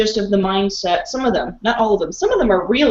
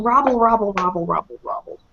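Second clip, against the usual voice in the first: mock gibberish squabble. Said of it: "You would just go robble".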